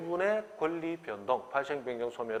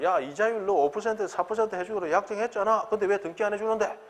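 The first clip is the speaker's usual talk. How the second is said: mock confrontation; 5 semitones higher, 4 dB louder than usual. Party confronts other over unregistered change.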